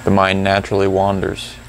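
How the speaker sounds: calm, unhurried reminders; gently steer them back to the breath; guided meditation. Real, not acted. Guides the silent practice.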